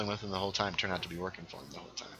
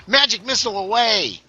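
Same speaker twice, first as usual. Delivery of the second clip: high, loud mock spell-casting cry; Doctor Malice; 10 semitones higher, 5 dB louder than usual. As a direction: cast it like a hammy villain. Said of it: "And he goes".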